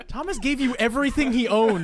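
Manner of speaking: can barely finish for laughing. Real, not acted. Laughing through NPC line.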